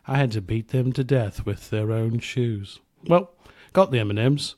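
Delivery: mock British sliding into Australian; drifting British accent. Podcaster spinning a rock singer's backstage tale, wobbly British-Australian accent. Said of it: "I don't know why I sound Australian".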